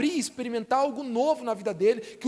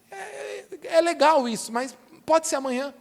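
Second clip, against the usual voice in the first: hesitant putting off; 4 semitones higher than usual. Acted. People answering God's offer, reluctant and noncommittal. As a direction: stall first, then politely wriggle out.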